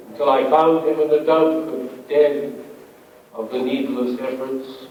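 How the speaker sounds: deliberate, confessional verse reading; poetry reading. Acted. Poet confessing cruelty to a fat pigeon, measured recital. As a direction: recite it line by line with pauses. Reads poem called Fly.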